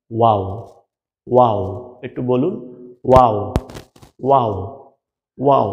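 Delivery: ওয়াও said with rounded lips slightly open; pronunciation demo. Shown as a demonstration. Teacher modelling ওয়াও for learners, rounded and falling. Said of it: "দুই ঠোঁট গোল করিয়ে".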